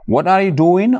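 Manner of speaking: high questioning voice of a passerby; asking someone. Retold or imitated. Someone finding you on the phone, asking. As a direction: ask it like a curious friend. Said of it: "mu ne la looy def".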